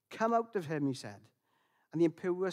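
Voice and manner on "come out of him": stern command. Acted. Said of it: "he said it sternly, with authority".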